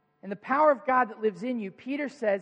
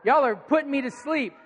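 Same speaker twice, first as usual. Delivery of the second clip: teasing, raised call to the crowd; playful scolding; 4 semitones higher than usual. Real, not acted. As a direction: wake them up with a playful jab. Scolding a sleepy congregation.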